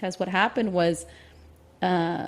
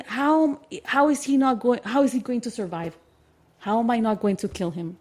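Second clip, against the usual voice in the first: panicked thoughts; 4 semitones higher than usual. Retold or imitated.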